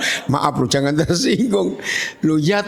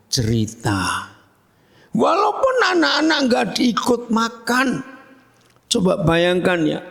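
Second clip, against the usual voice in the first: ordinary talk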